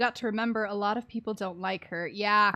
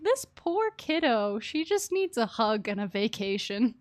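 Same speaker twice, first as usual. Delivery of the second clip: tender pity. Retold or imitated. Streamer talking to the sad character, tender cooing. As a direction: comfort a sad kid. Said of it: "I'm like".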